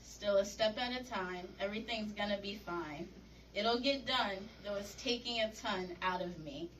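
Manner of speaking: rhythmic rhyming spoken-word delivery; poetry reading. Acted. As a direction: punch each line's opening, settle on the rhyme. Reads rhyming poem aloud.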